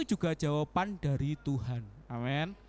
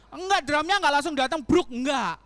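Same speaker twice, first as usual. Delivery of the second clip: emphatic; 8 semitones higher, 7 dB louder than usual. Acted. Emphatic denial to congregation.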